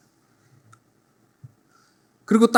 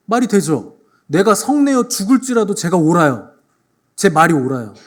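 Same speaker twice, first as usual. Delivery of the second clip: stubborn retort; 2 semitones higher, 5 dB louder than usual. Retold or imitated. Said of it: "요나가 뭐라 그런 줄 아세요?".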